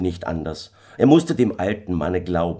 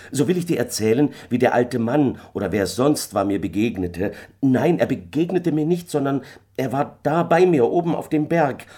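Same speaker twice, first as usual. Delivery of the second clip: higher, louder husband justifying himself; flustered husband; 8 semitones higher, 4 dB louder than usual. A narrator's reading. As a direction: explain in a fluster, correcting yourself. Michael flustered, explains himself. (aufgeregter Ehemann, höher, sich rechtfertigend)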